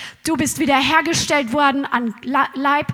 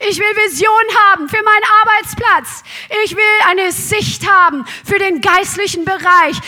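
passionate plea; 3 semitones higher, 4 dB louder than usual. Retold or imitated.

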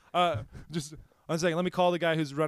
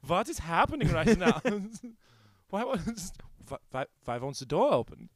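put-on German accent. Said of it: "I love your German".

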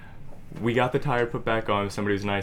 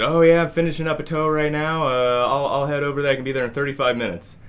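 tow driver voiced; 6 semitones higher, 4 dB louder than usual. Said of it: "And he said".

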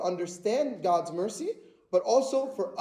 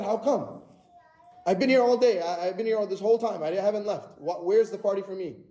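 acted older brother's mild indignation, quicker in places; mildly angry, spiteful; faster than usual. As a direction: protest like a resentful brother left out. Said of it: "He got angry, he got spiteful".

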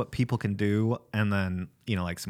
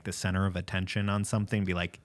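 normal talking voice

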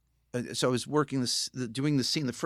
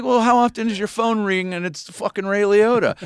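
mock indignant disbelief; 10 semitones higher, 9 dB louder than usual. Retold joking phone banter.

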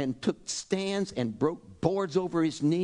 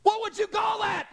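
preacher's shout. Real, not acted. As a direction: throw the question at the room. Challenging the congregation.

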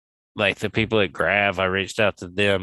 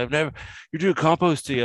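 a high, eager mock disbelief; retold friend's delighted surprise; lightly imitated excitement; excited; 8 semitones higher, faster than usual. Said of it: "He was, like, excited".

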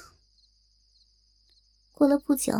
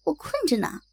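half asleep. Acted. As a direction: mumble it like you're barely awake. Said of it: "半睡半醒地问道".

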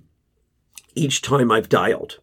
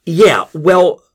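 shooting back; 2 semitones higher, 5 dB louder, slower than usual. Acted. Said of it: "I shoot back".

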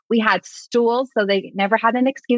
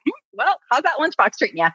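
sly teasing; 4 semitones higher than usual. Retold or imitated. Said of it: "I was like".

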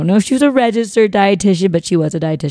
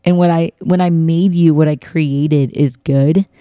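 tender Jesus. Retold or imitated. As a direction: soothe her like a gentle father. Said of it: "He'd be like".

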